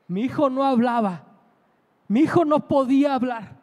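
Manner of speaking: voz fuerte de madre conmovida; asombro imitado. Retold or imitated. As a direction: recalca con fuerza, como testimonio de una madre. Madre conmocionada revela el milagro. (revelación enfática y fuerte)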